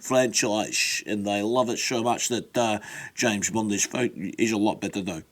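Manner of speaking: Sean Connery impression. Host voicing a fan's take on Star Wars, light Connery impression. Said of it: "Sean says".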